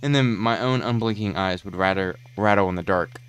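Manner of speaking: brooding, theatrical storyteller voice; dramatic monologue narration. Acted. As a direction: narrate like a horror documentary.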